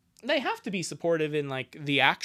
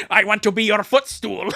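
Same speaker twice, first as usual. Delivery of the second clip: eager character voice; 5 semitones higher, 10 dB louder than usual. Acted. Dubbing character line.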